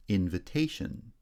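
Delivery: main stress on "ta" in "invitation"; "invitation", lighter first stress, strong third syllable; third-syllable primary stress. Shown as a demonstration. Teacher showing stress shift, third syllable strongest in "invitation". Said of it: "Primary stress shifts to the third syllable".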